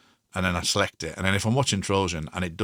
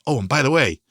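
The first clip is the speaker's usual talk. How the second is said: quoting Kryten; 5 semitones higher, 5 dB louder than usual. Retold or imitated. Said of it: "he goes".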